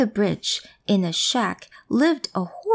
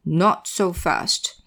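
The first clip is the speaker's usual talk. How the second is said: troll voice; 2 semitones lower, much slower than usual. Acted. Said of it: "a voice shouted out".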